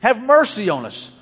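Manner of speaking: preacher's imitation of men shouting; retold shouting. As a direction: call out loud as the blind men begging for mercy. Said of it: "they began shouting".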